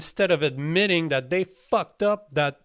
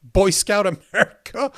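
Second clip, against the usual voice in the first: laughing in disbelief; 3 semitones higher, 4 dB louder than usual. Real, not acted. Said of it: "I'm laughing 'cause this is just".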